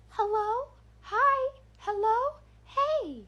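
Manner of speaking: put-on high, sing-song little-girl calls; a horror doll circling the fence; creepy doll voice. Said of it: "like that creepy doll voice".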